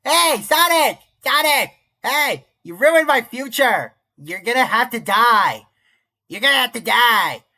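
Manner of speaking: high, loud, drawn-out mock threat; Ken Jeong. Imagining Ken Jeong as Silver confronting Sonic, high silly shouting. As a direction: shout it as a silly movie villain. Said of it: "your Ken Jeong's voice like".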